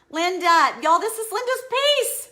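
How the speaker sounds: high, loud giggly announcement; excited laughing. Real, not acted. Streamer shows Linda her finished piece, laughing and excited. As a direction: laugh it out with nervous delight.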